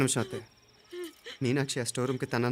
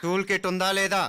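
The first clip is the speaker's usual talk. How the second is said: higher, forceful interrogation; raised-pitch, insistent questioning; stern demand; 7 semitones higher than usual. Acted. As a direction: press the question hard. Repeats question, pressing the servant.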